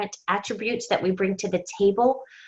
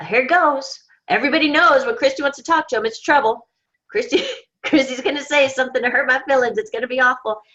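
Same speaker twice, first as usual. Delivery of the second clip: rushed, higher, fast nervous babble; nervous dread; 4 semitones higher than usual. Retold or imitated. Coworker voicing her fear before the talk, rushed and nervous. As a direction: gabble it out like someone sure bad news is coming.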